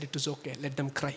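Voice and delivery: low, very soft, slow quote; quiet dismissal. Retold or imitated. Daughter dismisses her crying parents, very quiet and low. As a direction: say it slowly, well under your voice.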